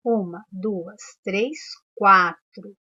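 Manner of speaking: counting beats, slowing right down at the end. Shown as a demonstration. Teacher counting syllables aloud for the class. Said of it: "Quantas vezes eu abri a boca".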